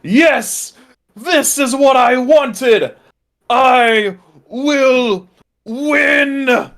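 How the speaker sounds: high, slow gloating villain cackle; mad scientist. Acted. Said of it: "The cultist leader is cackling maniacally".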